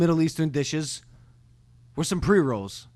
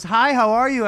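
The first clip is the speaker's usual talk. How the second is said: Chelsea's greeting; 6 semitones higher, 4 dB louder than usual. Retold or imitated. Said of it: "She goes, she goes".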